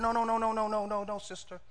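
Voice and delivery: soft, fading run of no's, dropping almost to nothing; gentle repeated no, trailing away; hushed pleading no. Retold or imitated. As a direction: plead her out of it quietly. Brother urgently warning colleague.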